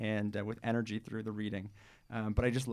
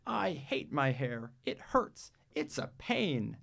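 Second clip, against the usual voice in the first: put-on whiny child; 3 semitones higher, slower than usual. Jamila complaining about her hair.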